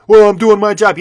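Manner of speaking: high, loud mock clerk protest; mock defensive clerk. Vlogger mimics a clerk defending the mask rule, high mocking whine.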